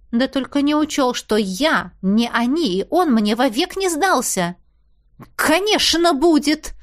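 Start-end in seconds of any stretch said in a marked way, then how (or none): 5.4-6.7 furious through teeth. A narrator's reading. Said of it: "процедила разъярённо".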